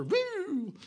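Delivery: a light mock officer pulling a speeder over; speeder's story, a lightly voiced officer; police officer voice. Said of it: "I get pulled over".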